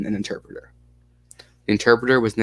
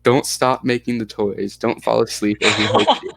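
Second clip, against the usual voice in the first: put-on lightly Russian-accented child's warning; broken English with a hint of Russian accent. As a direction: warn in a mild Russian accent. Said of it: "you like the Russian accent".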